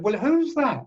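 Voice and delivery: high-pitched mock-baffled question; retold disbelief. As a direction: act out not recognising the voice. Retold astonishment at own accent.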